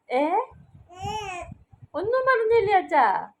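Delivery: put-on sing-song questions to a babbling baby; baby talk. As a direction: coo along as if following a baby's story.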